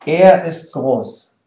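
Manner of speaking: slow, careful German for learners; teacher's slow demo; slow model sentence. Shown as a demonstration. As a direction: spell it out slowly for students.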